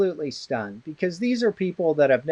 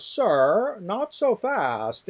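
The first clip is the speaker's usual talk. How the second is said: imitating a polite, slow, higher-pitched interjection; 5 semitones higher, much slower than usual. Elderly professor stepping in at a defense, mimicked very politely. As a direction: politely hold them back, drawing out the words. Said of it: "he said, you know, very politely".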